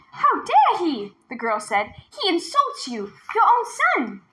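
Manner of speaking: put-on high, sly girl's voice, slow; girl goading tiger. A narrator's reading. Girl goading the tiger about its reflection, high and sly. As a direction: egg the tiger on, slowly.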